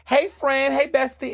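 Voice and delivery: high, overly friendly mock greeting; mock bestie greeting. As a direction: greet them like a pretend best friend, high-pitched. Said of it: "Hi does not mean".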